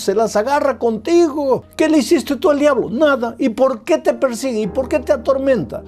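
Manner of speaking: high, fast, driving pulpit voice; rising sermon fervor, fast and high; fervent preaching. Acted. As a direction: preach it out to the whole church. Preaching at full force.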